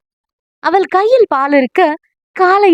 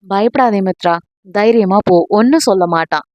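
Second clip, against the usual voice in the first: reassuring; 5 semitones lower than usual. Acted. Mother-in-law reassures frightened girl.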